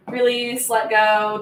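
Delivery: usual speaking voice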